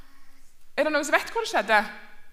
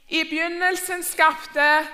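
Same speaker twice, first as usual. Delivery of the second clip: slow prompting; 5 dB louder, slower than usual. Shown as a demonstration. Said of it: "Veldig bra".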